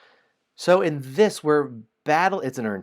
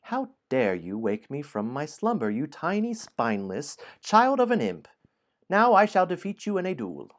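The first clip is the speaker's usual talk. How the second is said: rising higher into an indignant ogre challenge; angry ogre; 7 semitones higher, 4 dB louder than usual. Acted. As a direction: build from offended to a high, furious dare. Ogre's words, translated.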